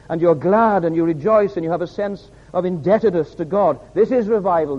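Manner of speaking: emphatic preaching, leaning on key words; fervent pulpit delivery; rousing preaching. Acted. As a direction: drive the point home to the congregation. Preacher builds to climax.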